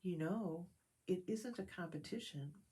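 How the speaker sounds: soft, gentle reassurance; kindly. Acted. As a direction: comfort a crying friend quietly. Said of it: "he said kindly".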